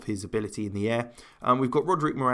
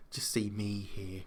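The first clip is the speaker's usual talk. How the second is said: whispering; 3 semitones lower, 9 dB quieter, slower than usual. Real, not acted. Whispered aside.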